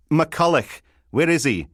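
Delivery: loud, high, exasperated question; insistent interruption. Acted. Sergeant interrupts lewd advice to find the boss, exasperated demand. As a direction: cut in firmly over the other person.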